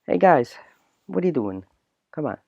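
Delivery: lightly attempted Italian accent; a half-hearted Italian-accent greeting; a hint of an Italian accent. Shown as a demonstration. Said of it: "here's, like, Italian accent".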